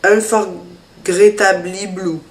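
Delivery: "Unforgettable Blue" said slowly with a French accent; a French speaker stumbling a little over an English product name, slowly. Real, not acted. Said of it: "désolée pour mon accent pourri".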